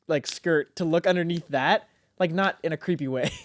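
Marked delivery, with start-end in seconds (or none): 3.5-3.4 groaning through laughter; laughing. Real, not acted. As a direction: laugh out "oh no" helplessly. Laughing at own embarrassing story.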